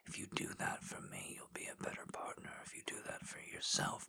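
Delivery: soft, close whispered encouragement; intimate ASMR whisper. Acted. Voice in a lover's ear, guiding in whisper. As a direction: coax them on in a hushed whisper. Erotic audio whispered guidance.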